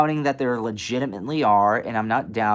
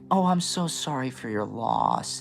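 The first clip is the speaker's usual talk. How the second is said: apologetic voice; 4 dB quieter than usual. Retold or imitated. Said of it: "that kind of apologetic".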